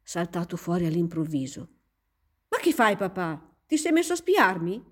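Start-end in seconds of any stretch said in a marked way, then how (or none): 2.5-4.8 figlia che ribatte, salendo di tono; protesta indignata. Acted. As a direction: accusa il padre con un po' di indignazione. Figlia sorpresa accusa il padre. (protesta recitata, indignata)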